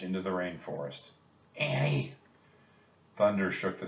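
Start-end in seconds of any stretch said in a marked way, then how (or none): 1.6-2.1 calling a name. Acted. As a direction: call her name into the forest. Jack calls for lost sister.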